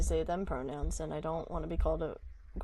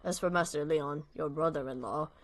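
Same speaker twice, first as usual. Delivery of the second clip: put-on old butler voice; 4 semitones lower than usual.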